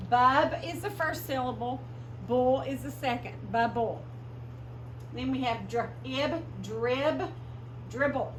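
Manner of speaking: emphatic teacher voice. Shown as a demonstration. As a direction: project to the class. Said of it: "teaching syllables aloud".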